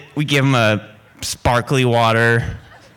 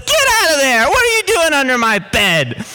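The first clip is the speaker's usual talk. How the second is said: high, imitated yell at an intruder; mock yell, pitched way up; retold alarmed yell; 12 semitones higher, 4 dB louder than usual. Housemate finding a man under her bed, retold high yell. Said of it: "Tracy's response was".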